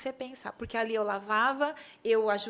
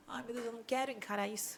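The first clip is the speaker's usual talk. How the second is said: dreading it; 8 dB quieter, faster than usual. Retold or imitated. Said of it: "teve momentos de".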